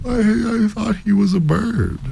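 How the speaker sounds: high, sleepy female character voice; yawning wife. A narrator's reading. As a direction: answer vaguely in a high voice. Yawning wife replies to her husband.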